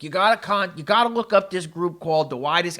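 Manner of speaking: a hint of Boston, not committed; attempted Boston accent. Quoting the guy from the L A party, faint Boston accent. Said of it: "I can't do a Boston accent".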